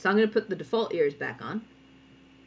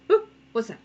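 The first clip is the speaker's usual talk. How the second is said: lightly acted surprise; a little startled "whoop"; surprised; 3 semitones higher, 4 dB louder than usual. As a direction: play a mildly surprised little creature. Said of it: "These would be surprised ears".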